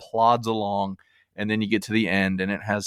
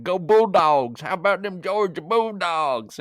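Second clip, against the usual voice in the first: high, hollered Southern sports-fan cheer; mock a dim, rowdy Bulldogs fan; mouth-breathing Georgia fan; 7 semitones higher than usual. Host mocking Georgians cheering their team, hollered Southern yokel. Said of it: "bunch of mouth breeders who run around going".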